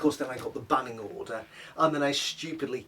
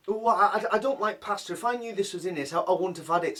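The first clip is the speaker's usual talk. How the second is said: higher mock complaining mum; mimicking mum; 4 semitones higher than usual. Mum refusing pasta at lunch, high mock whine. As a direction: imitate her fussy refusal.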